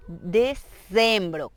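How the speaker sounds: DECEMBRO very slowly with a z for the c; very slow model of "decembro"; Z sound. Shown as a demonstration. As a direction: split "decembro" into "de-zembro". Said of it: "con Z".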